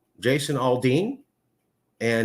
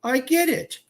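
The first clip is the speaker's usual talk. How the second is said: imitating mom; 12 semitones higher, slower than usual. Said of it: "She goes".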